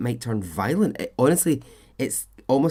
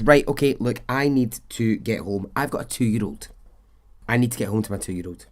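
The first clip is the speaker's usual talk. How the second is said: agitated. Retold or imitated. Suspect snapping at the police to let her go home, mildly agitated. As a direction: voice her getting worked up to leave. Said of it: "she's getting really agitated".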